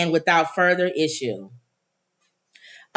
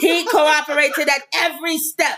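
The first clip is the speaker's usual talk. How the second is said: a light mock German accent; 5 semitones higher than usual. Host reads the news line in a weak, mock German accent. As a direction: attempt a German accent, not quite landing. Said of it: "You're trying to do your German accent".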